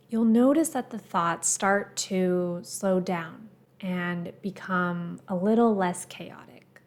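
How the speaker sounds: calm, measured guiding voice with pauses between phrases; guided meditation. Acted. Meditation teacher guiding listeners to the breath, calm and measured. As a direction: gently lead a meditation, leaving space after each phrase.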